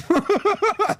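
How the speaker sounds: high mocking cackle of an old man; imitated boomer laugh. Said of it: "maniacally laughing".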